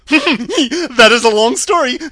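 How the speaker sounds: loud, high, slow cackling reply; hammed-up monkey chuckle, drawn out; monkey king laughing. A narrator's reading. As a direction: laugh like a monkey around the words. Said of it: "answered the king with a laugh".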